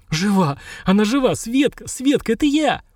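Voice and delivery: the wife is alive, call out her name; husband shouting over his revived wife, elated; joyful cry. A narrator's reading.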